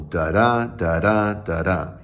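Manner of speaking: "Da-da" weighted on the second DA; iambic beat. Shown as a demonstration. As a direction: tap out each "Da-da" as weak-STRONG. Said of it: "stress is on the second syllable".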